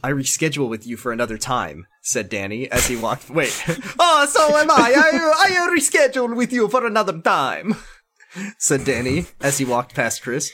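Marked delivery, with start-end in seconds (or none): 4.0-7.8 high, loud, overblown outburst; hammed-up indignant voice. A narrator's reading. Danny brushes Chris off, hammed-up indignant cry. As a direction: redo it high, loud and theatrical.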